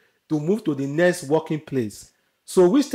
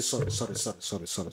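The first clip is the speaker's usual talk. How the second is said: soft, low string of apologies, fading away; meek repeated apology; 7 semitones lower, 10 dB quieter than usual. Retold or imitated. Worker who won't defend herself to a shouting boss, meekly apologising. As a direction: imitate a submissive worker, voice dropping off.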